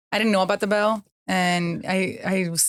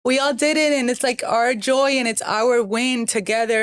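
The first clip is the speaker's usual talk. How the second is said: real tears rising, voice lifting; fighting back tears as you speak; emotional, choked-up voice; 3 semitones higher than usual. Real, not acted. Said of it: "I'm getting choked up".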